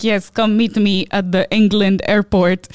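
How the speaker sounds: mock Nigerian-accented scammer invitation; imitated Nigerian accent. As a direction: invite her over in a put-on Nigerian accent. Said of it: "This guy's pure Nigerian".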